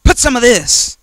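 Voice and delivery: high, sly tempter offering poison; tempting devil. Retold or imitated. Devil tempting the listener, high and sly. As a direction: coax like the devil handing over junk. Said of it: "the devil's like".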